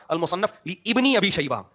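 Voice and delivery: slow, لابن held as "li-ibni"; repeated misreading. Retold or imitated. Speaker mimicking the engineer's repeated error, slow misreading. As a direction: draw out لابن with a doubled i. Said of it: "وقف بھی نہیں کر رہے".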